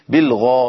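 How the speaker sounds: بالغيب with the غ fully emphatic; heavy ghain. Shown as a demonstration. Teacher showing students the full emphasis of غ. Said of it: "يبقى أقول إيه".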